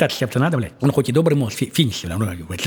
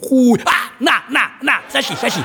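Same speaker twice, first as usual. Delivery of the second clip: изображает летающий хуй; 7 semitones higher than usual. Shown as a demonstration. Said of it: "вот это как будто хуй тебе влетел".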